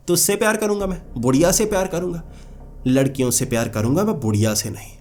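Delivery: put-on shouting at the old witch in a rage; angry outburst. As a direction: lash out at her in anger. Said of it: "इतना गुस्से में आ गया".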